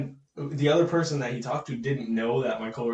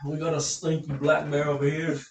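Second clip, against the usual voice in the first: Australian accent. Shown as a demonstration. Friend trying Australian on request, mock Australian accent. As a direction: play a mock Australian wildlife host.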